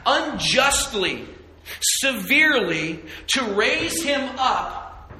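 high, slow, loud sermon climax; full-force preaching. Acted. Preacher to congregation, rising in a loud, slow proclaim.

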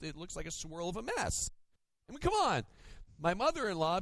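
ordinary delivery

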